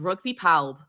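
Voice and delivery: Rugby Pawb said in a light Welsh accent. Shown as a demonstration. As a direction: say the name with a Welsh lilt. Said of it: "I have to put on a Welsh accent when I say it".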